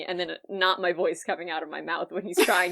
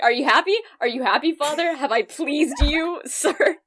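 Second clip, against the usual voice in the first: mock Southern accent; 5 semitones higher than usual. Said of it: "disgustingly poorly Southern".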